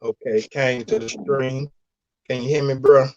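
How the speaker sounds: glitchy robotic stream audio. Real, not acted. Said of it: "you sound like a robot, too".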